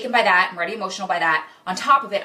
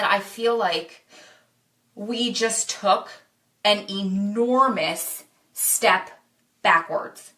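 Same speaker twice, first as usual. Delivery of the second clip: very slow, halting, held-back upset; retold near tears; much slower than usual. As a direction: drag it out word by word, as if struggling to get it out. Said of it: "My voice started quivering".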